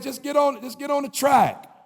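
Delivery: urging voice. Retold or imitated. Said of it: "Something said".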